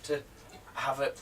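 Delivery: lightly put-on Queen's English, very proper; mock-proper British enunciation. Shown as a demonstration. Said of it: "No, the Queen's English".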